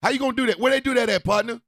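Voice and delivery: loud, fast street-style confrontation; mock confrontation, loud and quick; imitating a defiant worker. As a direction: talk fast and loud like a fed-up worker calling someone out. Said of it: "federal workers were out here going".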